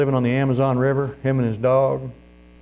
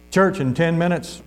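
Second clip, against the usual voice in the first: drawn-out, slightly raised announcement; mild, stretched-out holler; calling out; 4 semitones higher than usual. Retold or imitated. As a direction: call it across a yard, slowly, without shouting.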